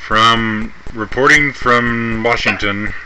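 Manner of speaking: loud, slow announcer intro; news anchor voice. Acted. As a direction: present it like a TV anchor. Parent plays news anchor intro.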